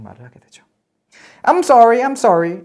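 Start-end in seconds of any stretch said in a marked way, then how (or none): 1.4-2.6 mocking repeat. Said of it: "약간 놀리는 거죠".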